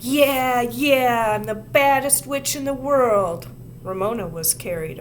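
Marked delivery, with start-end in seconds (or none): 0.0-3.5 high, loud cackling witch boast; witchy shriek. A narrator's reading. Ramona on the playground, shrieking her witch boast. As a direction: shriek it like a wild little witch. Ramona carried away, shouting.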